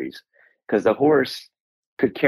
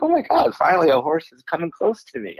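excited; 7 semitones higher than usual. Retold or imitated. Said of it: "I'm like".

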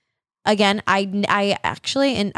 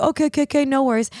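a light hint of a higher, easygoing grandfather; grandfather's voice; 6 semitones higher, faster than usual. Grandfather on the phone, lightly voiced easygoing reply. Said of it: "He's like".

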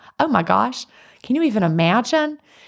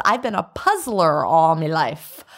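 put-on slow folksy accent, MY said as "mi"; slight put-on accent; 2 semitones lower, slower than usual. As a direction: read it as written, in a light accent. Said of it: "said it like she said it".

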